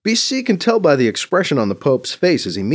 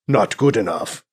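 mock Arabian accent. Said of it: "in a mock Arabian accent".

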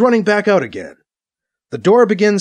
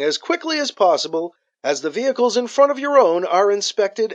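speaker announcement; 2 semitones higher than usual. Acted. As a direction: read it like a port control message. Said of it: "A voice comes over the car's speakers".

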